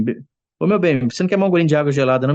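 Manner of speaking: high, fast playful offer; teasing husband. Retold or imitated.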